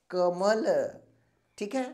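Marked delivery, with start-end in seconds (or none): 0.1-0.7 कमल said clearly through the mouth only, no nasal sound; demonstrating a non-nasal word; oral demo word. Shown as a demonstration. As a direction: repeat कमल plainly, with no nasal colour. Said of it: "देखिए मुंह से केवल हवा निकल रही है ना".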